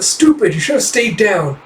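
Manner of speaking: high taunting voice. Acted. Character taunting.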